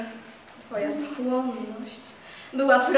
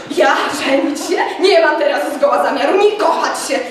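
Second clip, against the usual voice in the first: loud protest; 2 semitones higher, 10 dB louder than usual. A narrator's reading. Tadeusz refusing marriage.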